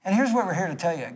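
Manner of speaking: ordinary talk, nothing marked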